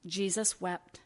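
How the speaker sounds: a hushed, reverent Jesus wept; hushed solemn. Acted. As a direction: let the two words sink in softly. Solemn refrain in sermon.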